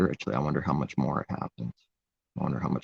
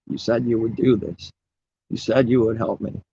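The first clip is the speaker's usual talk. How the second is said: higher, louder desperate plea; acted desperate outcry, raised in pitch; desperate cry out; 6 semitones higher, 6 dB louder than usual. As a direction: cry out to be held to a promise. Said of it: "desperation, cry out".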